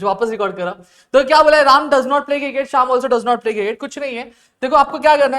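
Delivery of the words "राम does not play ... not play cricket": reading the example out slowly, word by word; slow dictation. Shown as a demonstration. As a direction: spell it out slowly for students. Teacher reads example sentence aloud. (धीरे-धीरे बोलकर लिखवाना)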